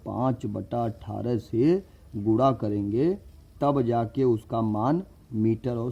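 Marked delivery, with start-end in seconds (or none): 0.1-3.1 slower, each word laid out; slow repeat for emphasis. Shown as a demonstration. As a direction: say it again slowly so it sticks. (धीरे-धीरे दोहराते हुए)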